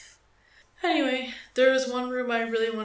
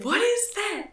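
high-pitched mimicry of an old lady; older smoker impression; 11 semitones higher than usual. Older coworker asking about a strange find, mimicked in a high voice. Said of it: "That's what she sounded like".

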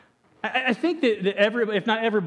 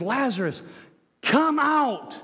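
calling out; 6 semitones higher, slower than usual. Acted. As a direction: come out raised high. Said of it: "When he says".

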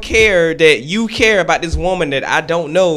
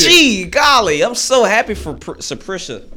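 mock cheer; 3 semitones higher, slower than usual. Mocking a cheerful reply.

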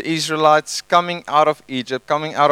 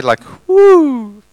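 high, loud swooping whoo; magical whoo; 12 semitones higher, 8 dB louder than usual. Acted. Pastor playing up a magical-sounding name, high swooping whoo. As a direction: sing out a mystical whoo. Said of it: "It sounds so magical".

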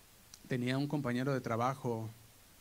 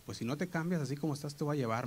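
parent's threat; 3 semitones higher, faster than usual. Retold or imitated. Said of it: "me decía mi papá y mamá".

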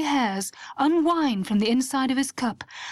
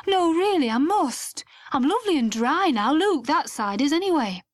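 flustered excuse; 4 semitones higher than usual. Acted. Mike hurrying to escape.

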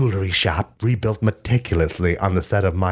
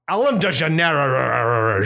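dramatic wife; 7 semitones higher, slower than usual. Pretend. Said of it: "she said".

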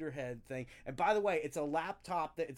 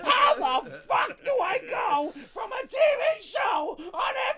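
screaming breakdown; 14 dB louder than usual. Retold or imitated. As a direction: yell it out like you're snapping in public. Costumed man's on-street breakdown.

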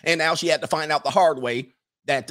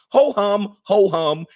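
higher, louder sing-song ho hum; bored old woman; 6 semitones higher, 6 dB louder, slower than usual. Retold or imitated. Old maid mocking the fuss with a louder ho hum. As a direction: toss it off like an everyday thing. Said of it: "she's like".

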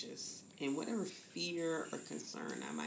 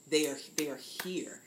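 breathy whisper of arrival; whispered awe. Real, not acted. Doula describing a baby crowning, whispered. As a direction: breathe it out as a hushed secret.

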